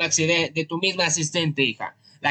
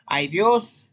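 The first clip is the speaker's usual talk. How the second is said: mock regretful husband; 2 semitones higher than usual.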